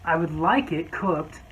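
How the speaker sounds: slow, deadpan, oddly changed voice; deadpan customer. Retold or imitated. Customer ordering chicken medium rare, slow and deadpan. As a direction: order it straight-faced as if normal. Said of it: "and says".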